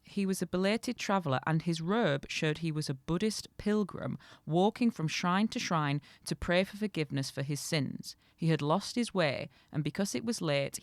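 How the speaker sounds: measured storytelling read; story narration. A narrator's reading. Reading a folk tale to co-host, story narration. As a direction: read the tale aloud, clearly phrased.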